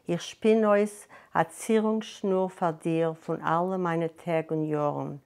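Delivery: measured Yiddish poem reading; reading a poem aloud in Yiddish; poem recitation. Acted. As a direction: recite the Yiddish verse with care. Recites Yiddish poem amid plain talk.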